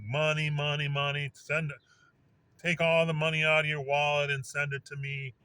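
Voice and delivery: half-playful plea for cash; begging for money. Retold or imitated. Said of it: "like these people that beg".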